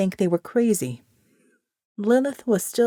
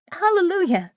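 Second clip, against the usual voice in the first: joyful shout; 9 semitones higher than usual. Acted. Congregation shouts praise.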